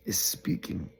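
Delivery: whispered aside about the talking donkey. Real, not acted. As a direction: drop to a hushed whisper. Hushed wonder at talking donkey.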